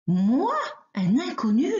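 a vain wolf insulted nobody knows him; offended wolf. Acted. Wolf offended the rabbit calls him a stranger, indignant. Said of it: "s'écrie le loup vexé".

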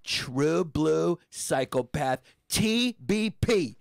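slow, drawn-out pronouncement; emphatic verdict. Retold or imitated. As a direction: space out each title for weight.

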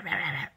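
imitating puppy yaps. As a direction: whisper the puppy's little yaps as a mock. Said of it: "like this".

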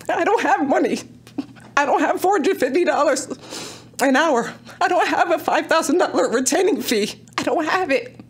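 pleading, upset and worn out; emotional. Real, not acted. Resident pleading with the town council, emotional and strained. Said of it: "I'm sorry that I'm emotional".

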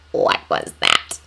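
flat robotic droid voice; monotone metallic voice. Acted. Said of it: "one asked in its monotone, metallic voice".

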